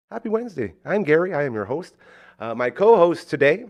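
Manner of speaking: ordinary talk, nothing marked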